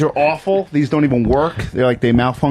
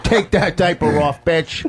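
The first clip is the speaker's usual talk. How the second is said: lightly voiced club-comic impression; Rich Voss; 3 semitones higher, slower than usual. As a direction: mimic another comic delivering his joke. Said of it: "All right, we'll do Voss first".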